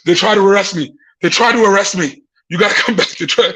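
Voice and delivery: acted breathless phone plea; out of breath. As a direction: mimic gasping out news after a run. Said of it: "and I'm out of breath".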